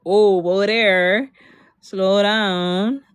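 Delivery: slow, drawn-out "whoa there"; cautioning. Retold or imitated. Reining in the girl's big plan, slow cautioning. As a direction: stretch it out to rein someone in. Retelling own reply urging caution.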